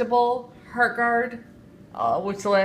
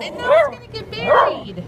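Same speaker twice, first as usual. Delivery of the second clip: higher, louder dismay; louder exclaim; 7 dB louder than usual. Real, not acted. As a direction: call it out in mock despair. Repeated louder, far.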